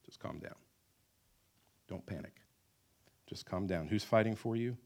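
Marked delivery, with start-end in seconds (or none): 0.1-0.6 hushed soothing whisper; calm them under your breath. Acted. Soothing the panicked people. 1.9-3.9 soothing. Acted. Soothing the panicked people.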